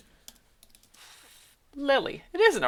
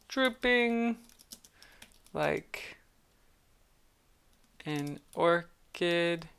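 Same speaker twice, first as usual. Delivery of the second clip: mock devastated; 2 semitones lower, 4 dB quieter, much slower than usual.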